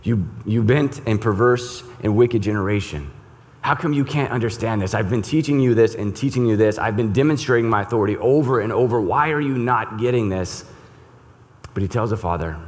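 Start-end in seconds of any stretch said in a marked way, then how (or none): 0.0-10.6 exasperated and louder, voice pushed up; Jesus losing patience with his disciples, in a loud exasperated rebuke; frustrated rebuke. Retold or imitated. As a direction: scold them like a teacher at his wits' end. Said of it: "we see and hear frustration from Jesus".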